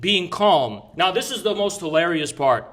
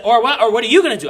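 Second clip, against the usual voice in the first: retold challenge; 5 semitones higher, 7 dB louder, faster than usual. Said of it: "He said".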